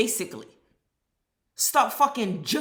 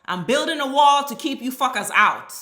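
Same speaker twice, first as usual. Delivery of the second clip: mock Trump; 3 dB louder than usual. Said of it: "He has made it obvious".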